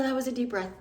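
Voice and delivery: mock disgust. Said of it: "reacts to the diaper smell".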